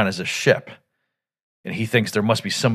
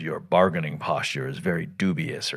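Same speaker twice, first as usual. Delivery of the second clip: lightly voiced Unicron; 5 semitones lower, 6 dB quieter than usual. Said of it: "And he says".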